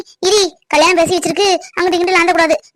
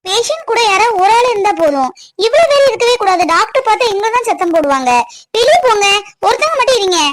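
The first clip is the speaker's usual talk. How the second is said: raised-pitch, brisk reprimand; scolding nurse; 3 semitones higher than usual. Acted. Nurse clearing relatives from the ward, scolding. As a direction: order the visitors out with authority.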